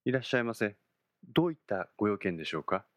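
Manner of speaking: polite bank clerk greeting; brisk, bright service voice; customer service voice. Acted. Bank floor lady greets customer. (接客の声)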